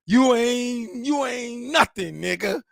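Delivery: hammed-up disapproving women glaring; scolding black women. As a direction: drag it out like an offended auntie. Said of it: "all the black women going".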